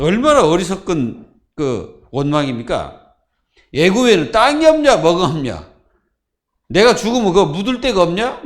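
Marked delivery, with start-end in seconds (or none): 3.7-8.4 hammed-up indignant grumbling, rising at each question; a mild mock whine, as the Israelites grumbling at Moses; mock complaining. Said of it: "이렇게 원망하는 거예요".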